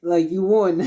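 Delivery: mildly choked-up mother voice; mock tearful. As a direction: gush like a teary, proud mom. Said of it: "she starts crying".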